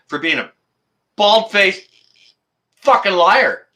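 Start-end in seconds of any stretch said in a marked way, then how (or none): 1.2-3.7 loud, high furious curse; furious outburst at a lying politician; angry shout. Real, not acted. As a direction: spit the insult out.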